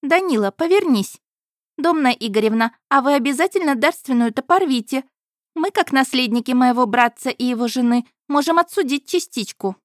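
put-on high, insistent young woman; pushy daughter. A narrator's reading. Daughter pressing her mother about the inheritance, pushy high voice.

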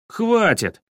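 high, forceful cut-off; enraged. A narrator's reading. Boy fed up with his friend's objections, enraged. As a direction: snap angrily to shut down the objections. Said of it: "рассвирепел Денис".

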